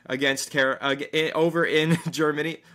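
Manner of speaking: breathless, stumbling over words; gasping between words; out of breath. Real, not acted. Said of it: "I'm running out of breath here".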